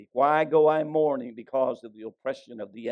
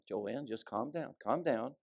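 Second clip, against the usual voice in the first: softer, slow calming voice; soothing pastor; 8 dB quieter than usual. Retold or imitated. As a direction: settle down an upset caller. Pastor soothing a sobbing caller.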